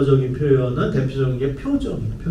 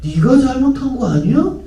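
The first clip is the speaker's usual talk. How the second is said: higher, louder accusing question; blaming parent; 8 semitones higher, 5 dB louder than usual. Retold or imitated. Parent wrongly blaming the child, accusing. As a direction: scold the kid for his own fault. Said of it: "거기다 대고".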